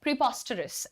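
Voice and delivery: प्रीपोस्टरस with a short, clipped पॉ; short po sound. Shown as a demonstration. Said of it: "वो छोटा रखना भाई". (पॉ छोटा रखते हुए उच्चारण)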